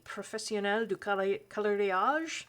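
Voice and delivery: French words in a clumsy non-native French accent; terrible French accent. Real, not acted. Vlogger naming a colouring title, in a poor French accent. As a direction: attempt French with an imperfect accent. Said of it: "my French accent is terrible".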